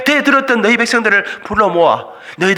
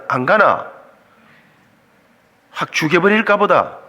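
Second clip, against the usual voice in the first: a lightly voiced Gyeongsang God, lower and gruff in mock threat; Gyeongsang dialect God; 6 semitones lower, 3 dB quieter than usual. God threatening reluctant Moses in lightly mock Gyeongsang dialect. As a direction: play God grumbling in Gyeongsang dialect, half joking. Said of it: "경상도 말로 하면 이랬습니다".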